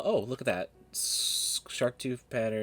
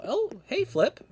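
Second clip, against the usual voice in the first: excited greeting; 3 dB louder, slower than usual. Real, not acted. Greeting character.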